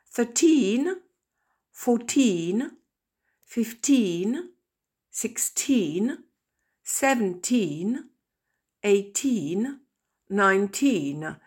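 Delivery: put-on eleven to nineteen with teen stressed. Shown as a demonstration. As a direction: lean on the teen ending of each number. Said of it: "J'ai fait exprès d'insister sur le teen".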